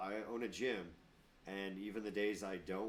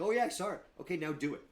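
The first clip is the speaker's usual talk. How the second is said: high, loud flustered reply; mock flustered student; 7 semitones higher, 7 dB louder, faster than usual. Student excusing himself to the teacher, loud and flustered. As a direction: blurt it like a caught-off-guard student.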